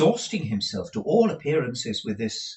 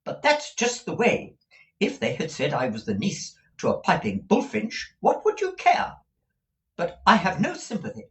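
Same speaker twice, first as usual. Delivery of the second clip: whimpered; 9 semitones higher, 4 dB louder than usual. A narrator's reading. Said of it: "whimpered Missus Nickleby".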